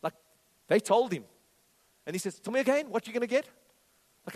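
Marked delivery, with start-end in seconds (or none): 2.4-3.5 eager questioning. Acted. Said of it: "David kept asking".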